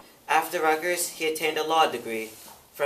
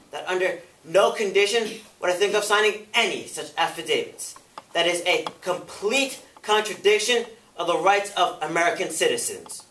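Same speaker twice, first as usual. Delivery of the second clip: firm testimony, building in force and emphasis; defiant witness; 3 semitones higher, 4 dB louder than usual. Acted. Robeson refusing the committee's demand for an affidavit, increasingly defiant. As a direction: start measured, grow emphatically indignant.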